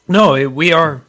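choking a little, catching breath; choking on a drink. Real, not acted. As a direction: talk while choking on a drink. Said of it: "I'm choking a little bit".

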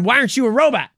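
high, loud hammed-up yell; mock screaming. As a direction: scream it at him, overplayed. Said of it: "We're screaming at him".

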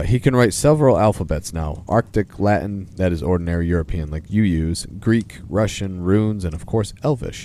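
lively storybook reading of a letter; measured, expressive read-aloud. Acted. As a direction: read it out as Father Christmas writing to children.

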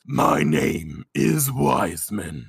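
low, slow booming villain voice; booming Wiseman voice. Acted. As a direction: boom it out like a dark entity. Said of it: "I'm gonna shift my voice a little bit".

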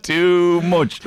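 laughing through the words; laughing reply. Real, not acted. Host laughing at co-host's improv dig, laughing. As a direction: answer while still laughing.

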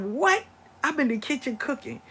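high startled what; surprised mother. Retold or imitated. Mother to accusing son, high and startled. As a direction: defend yourself, caught off guard. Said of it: "She said".

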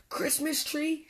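high-pitched indignant question; spluttering. A narrator's reading. Badger to Mole who wants his ladder, indignant splutter. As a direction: splutter in disbelief, pitch jumping up. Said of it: "spluttered Grumpy Badger".

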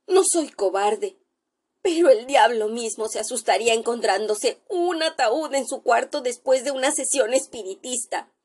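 a doctor sure he sees a ghost, voice rising in fear; frightened doctor. Acted.

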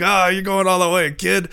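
high, loud fast-talking forties agent; schmoozy Hollywood agent. Retold or imitated. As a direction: pitch it like an old-time talent agent. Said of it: "that dude sounds like a nineteen forties talent agent".

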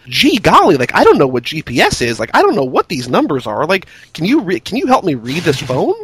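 a hammed-up clueless voice; mock dumb voice. Mocking how Cage talks down to her, mock dumb. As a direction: play it as someone who knows nothing. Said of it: "speaking to her like".

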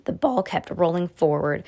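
usual speaking voice

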